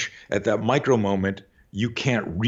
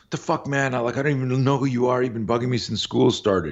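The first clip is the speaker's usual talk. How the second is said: higher-pitched, mildly heated retold outburst; exasperated protest; 5 semitones higher than usual. Bullied boy answering his tormentor, exasperated. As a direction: push back like a fed-up teenager.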